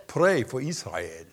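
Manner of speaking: slow, weighty words from God; the Lord speaking, slow and solemn. Retold or imitated. Preacher retelling God's words to Reinhard, slow and solemn. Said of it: "the Lord spoke to me this morning and said".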